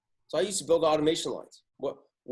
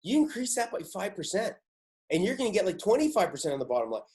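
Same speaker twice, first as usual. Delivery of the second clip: higher pitched, eager reply as Bob; excited; 5 semitones higher than usual. Retold or imitated. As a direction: pitch it up like a thrilled adviser. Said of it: "And Bob's going".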